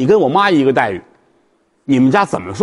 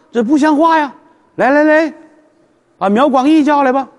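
distraught emperor; 8 semitones higher than usual. Acted. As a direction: cry out in dismay as the sobered emperor.

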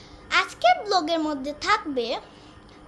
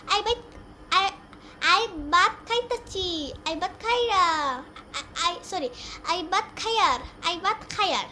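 Barishal dialect. Shown as a demonstration. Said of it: "আমাদের বরিশাইলা ভাষায় কয়".

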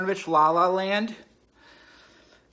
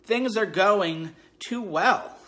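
drawn-out boredom; 2 semitones higher, 5 dB louder, much slower than usual. Real, not acted. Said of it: "I'm bored out of my mind".

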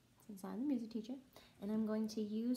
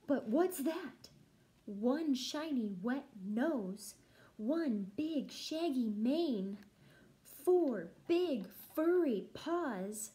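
slow, louder rising suspense; building suspense; 4 dB louder than usual. Acted. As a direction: build the tension toward the lion. Discovering the lion.

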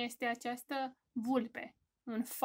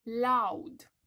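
louder, called out; loud teacher demo; 6 dB louder than usual. Shown as a demonstration. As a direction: call it out big for the kids. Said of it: "Ursulețul care țipă".

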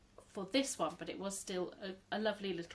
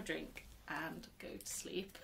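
whisper; 4 semitones lower, 8 dB quieter, slower than usual. Real, not acted. Tired after a busy day.

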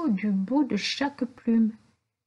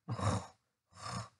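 creaking; 13 dB quieter than usual. A narrator's reading. Rocking chair creak imitated.

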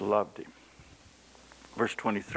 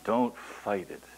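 tender plea; slower than usual. Shown as a demonstration. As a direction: say it slowly and gently. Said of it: "Just bow down and accept it".

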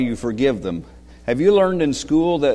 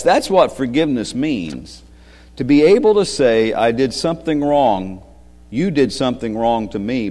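story reading. Acted. Reads story aloud to children.

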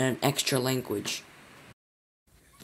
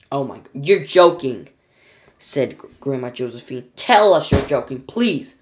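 louder, slow begging; frightened pleading; 8 dB louder than usual. A narrator's reading. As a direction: beg him fearfully. Grandma pleads.

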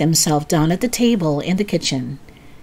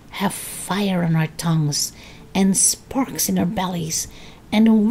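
put-on old woman whispering; 4 semitones higher than usual. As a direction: whisper the dark secrets. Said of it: "whispering in a throaty sort of voice".

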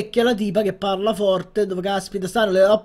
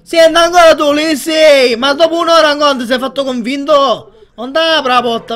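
louder, half-joking outburst at the guest; mock annoyed yell; 3 semitones higher, 6 dB louder than usual. Gamer yelling at a lingering guest, mock annoyed. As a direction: playfully shout him off.

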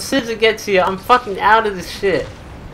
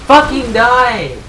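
slow, loud, raised demand; pissed-off shout; 5 semitones higher, 6 dB louder, slower than usual. Real, not acted. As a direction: shout it slowly in real anger. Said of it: "I'm getting fucking pissed off now".

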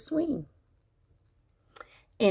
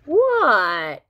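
answering a call; 3 semitones higher, 5 dB louder than usual. Acted.

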